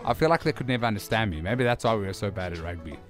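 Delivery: talking around a mouth guard; words slurred by a mouth guard. Real, not acted. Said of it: "It feels weird to be wearing a mouth guard again".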